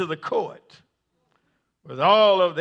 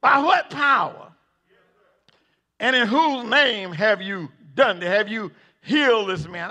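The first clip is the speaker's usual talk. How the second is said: judge yells again; 3 semitones higher than usual. Acted. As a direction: hammer it home so they hear. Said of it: "Y'all ain't hearing me".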